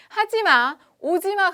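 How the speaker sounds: 높고 크게 외치기; 하지 말라고 막아서듯. Acted. 청개구리 자석 역할 외침. (청개구리 자석이 크게 외침)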